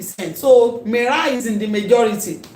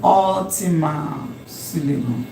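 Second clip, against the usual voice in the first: lower, measured "Ultimate syllable"; 4 semitones lower, 4 dB quieter than usual. Shown as a demonstration. Teacher slowly repeats a new term.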